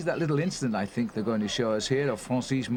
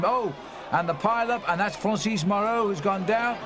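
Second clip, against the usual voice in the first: jumps up in pitch at the crash; sudden surprise; 4 semitones higher than usual. Real, not acted. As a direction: caught off guard by a pile up. Sudden crash seen live.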